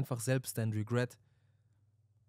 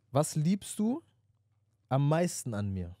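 mock girlfriend; 3 semitones higher, slower than usual. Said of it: "Ich bin wie so eine Freundin gerade".

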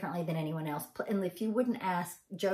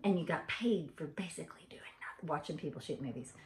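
whispered aside; 5 dB quieter than usual. Real, not acted. Confiding aside.

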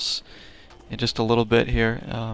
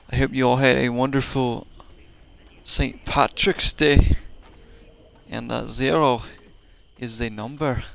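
a half-hearted Irish lilt on the sign-off; lightly put-on Irish accent, wishing a happy Saint Patrick's Day; awful Irish accent. Streamer signing off to viewers in a hammed-up Irish accent. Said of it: "That was an awful attempt at another Irish accent".

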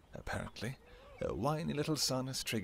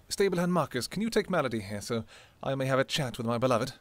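calling out; 5 dB louder than usual. Acted. King calls a stablehand to take the horse, raised voice. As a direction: summon the stablehand firmly.

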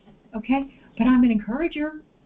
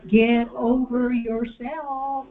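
sweetly; much slower than usual. Shown as a demonstration. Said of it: "look at somebody real sweetly, real kindly".

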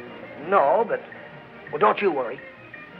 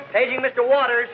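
loud sing-song page call; 8 semitones higher, 4 dB louder than usual. Acted. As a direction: call the name down the hall. Page boy calling out.

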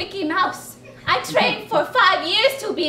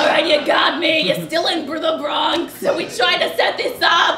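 shouting; 4 dB louder than usual. Real, not acted. Revealing the prank, shouting.

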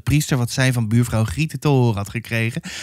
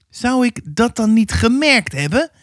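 higher, mildly flustered mother; stammering; 9 semitones higher than usual. A narrator's reading. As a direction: falter in a raised, uncertain voice. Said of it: "stamelde ze". (lichtjes stamelend, hoger)

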